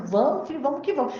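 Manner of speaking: lightly voiced mother egging her child on; urging mother. Mother pulling her child along to church, urging.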